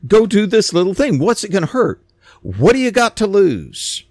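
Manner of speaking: a hint of servants gently pressing their master; coaxing servants. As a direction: urge him on like a pleading servant, lifting the pitch. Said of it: "And they're like".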